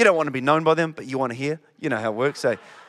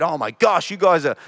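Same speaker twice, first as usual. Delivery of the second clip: slow, higher exasperated scolding, half-hearted; hammed-up despairing rebuke; mock berating; 4 semitones higher, 4 dB louder, slower than usual. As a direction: pretend Jesus losing patience, drawn out. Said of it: "never berated them and said".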